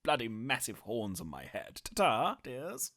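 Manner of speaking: lightly voiced glamorous star, purring; a hint of an old-Hollywood diva; breathy vintage purr. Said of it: "spot of fun with the old sport".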